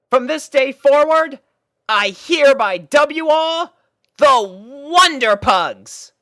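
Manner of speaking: pony voice making a grand proclamation; Rainbow Dash proclaiming. A narrator's reading. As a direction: knight them all with ceremony.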